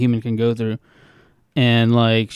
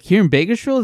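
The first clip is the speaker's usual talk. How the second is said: incredulous; 8 semitones higher than usual. Retold or imitated. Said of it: "And I was like".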